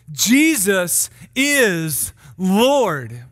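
deliberate herald's declaration with weighty pauses; solemn announcement to the people; gospel proclamation. Acted. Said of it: "his gospel would have read more like this".

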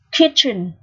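"kitchen" with a strong ch; "kitchen" said alone with a clear ch; pronunciation demo. Shown as a demonstration. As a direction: model "kitchen" for learners, CH as in chair. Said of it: "C H được phát âm là âm ch".

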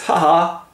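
mock gloating laugh; villain's aside laugh. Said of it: "turns to the camera and says".

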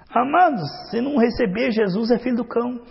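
high, loud declaration; forceful preaching. Real, not acted. Preacher warning the congregation, loud and high. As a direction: proclaim it to the congregation.

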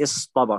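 اصطبر run together with a heavy T; easy emphatic Ta. Shown as a demonstration. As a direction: say اصطبر in one go, dark T after S. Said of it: "يعني هو سهل".

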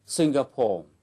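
Singapore with the weight on SIN; SIN-ga-pore, first syllable stressed. Shown as a demonstration. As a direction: hit SIN in Singapore, let the rest fall away. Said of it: "trọng âm rơi vào âm tiết thứ nhất".

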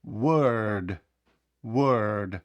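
Word said with an e-like vowel, "wörd", falling. Shown as a demonstration. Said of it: "Більше схоже на звук Е".

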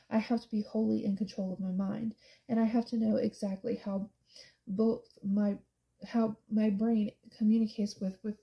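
tripping over the words; halting, fumbled phrasing; stumbling read. Real, not acted. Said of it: "ugh, I cannot speak".

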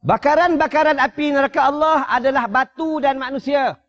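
a stone begging the Prophet for mercy; talking stone pleading. Acted. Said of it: "Ini batu ni bercakap, dia kata apa?".

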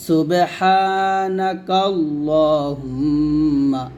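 slow, drawn-out Arabic recitation; measured Quranic-style reading. Shown as a demonstration. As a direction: chant each syllable slowly and evenly. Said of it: "সানা হচ্ছে".

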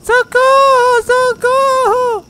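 very high shriek of help, half laughing; being chased. Real, not acted. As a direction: scream for help in a comic panic.

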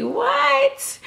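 a huge high squeak of disbelief; jaw-drop amazement in one word; a very high, amazed what; stunned what. Retold or imitated. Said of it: "And I'm sitting here like".

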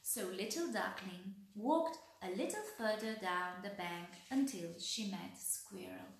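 put-on gentle read-aloud voice for children; expressive picture-book reading; storybook narration. A narrator's reading. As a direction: tell it like a bedtime story.

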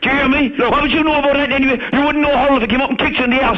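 put-on shouting insults in a Cork accent; angry. Caller rants at Brendan.

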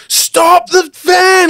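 high, slow yelled command, hammed up; a re-enacted scream to halt the van; retold scream. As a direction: belt it out like a sudden panicked alarm. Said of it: "basically screamed out".

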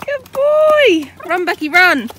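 high, loud calls while running; excited shout. Real, not acted. Owner cheering horse and friend while running, loud calls. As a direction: shout encouragement as you run.

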